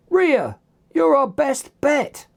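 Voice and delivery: high-pitched urgent call; shouted. A narrator's reading. Dylan to Rhea while holding the nanogun, shouted. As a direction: call to a teammate across the crowd. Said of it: "shouted Dylan".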